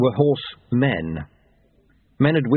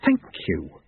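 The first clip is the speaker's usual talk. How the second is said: calmer; 6 semitones lower than usual. A narrator's reading. Jeremy composes himself after shouting, calmer and lower. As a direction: pitch dropped after the outburst. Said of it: "said Jeremy more calmly".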